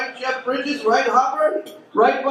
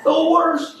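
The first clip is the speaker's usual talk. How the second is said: drawn-out disgust; 4 semitones higher, much slower than usual. Acted. Drawn-out complaint.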